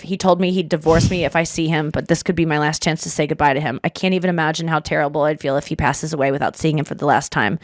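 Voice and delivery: steady, even reading of a confession; reading a post aloud. Acted. Host reading a Reddit confession to co-hosts, evenly. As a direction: read it straight for the listeners.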